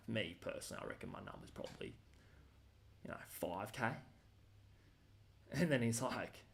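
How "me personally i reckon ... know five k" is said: whispered aside to the guard; conspiratorial whisper. Retold or imitated. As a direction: drop to a secret whisper. Quietly hinting at a bribe.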